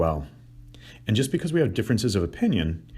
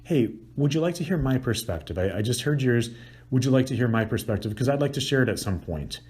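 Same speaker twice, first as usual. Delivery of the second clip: higher, gentle asking permission; lightly raised courteous ask; polite request; 4 semitones higher than usual. Shown as a demonstration. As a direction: offer your view kindly. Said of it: "ask the person".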